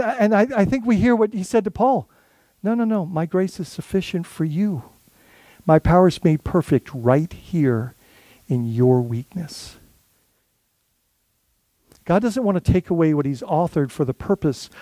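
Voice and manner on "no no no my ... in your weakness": gentle reply as God. Pretend. Voices God's gentle answer.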